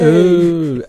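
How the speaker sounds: high, loud drawn-out ooh; spooky ooh. Acted. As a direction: coo like a ghostly crowd. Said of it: "you never come in with the oohs".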